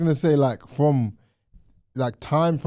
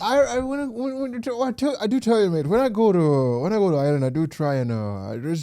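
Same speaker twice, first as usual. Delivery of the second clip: higher-pitched, stammering Irish brogue; Irish accent; 4 semitones higher than usual. Acted. Host showing off co-host's favourite accent, Irish accent. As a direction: ramble haltingly as an Irishman. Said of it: "Irish is one of my favourite accents".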